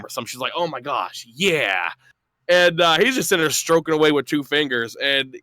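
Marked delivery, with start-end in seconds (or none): 0.5-1.9 low, understated imitation of her indifference; unexcited playing along. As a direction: humor him with no real excitement. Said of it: "she was excited to, like, you know, play a video game".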